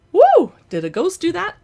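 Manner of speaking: high surprised whoop then a spooked question; startled woo. Real, not acted. Collector startled when the figure jumps from her hands, surprised yelp. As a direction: yelp as the doll jumps, then wonder aloud.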